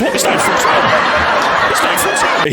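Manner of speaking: giggling out the time; laughing through the joke. Retold or imitated. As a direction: say it while cracking up. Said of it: "and then you go".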